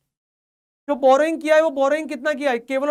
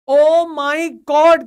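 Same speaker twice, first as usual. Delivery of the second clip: a drawn-out, louder oh my God; mock shock; 2 semitones higher, 6 dB louder, much slower than usual. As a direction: ham up the teacher's dismay.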